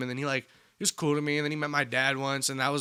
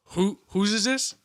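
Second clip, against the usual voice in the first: slower, higher teacher voice; mock suspicious teacher; 5 semitones higher, 3 dB louder, slower than usual. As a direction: drag it out, suspicious. Math teacher questioning the pass.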